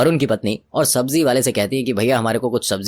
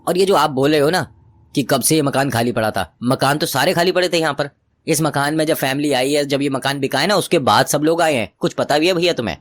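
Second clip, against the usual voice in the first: indignant retort; 5 semitones higher than usual. Acted. Wife hotly arguing with the vegetable seller about the house. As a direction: push back at his nonsense, indignant. Smita argues back with seller.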